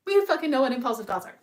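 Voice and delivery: high, loud, quick words through a laugh; amused laughing outburst. Real, not acted. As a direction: laugh it out as you say it. Laughing at own point.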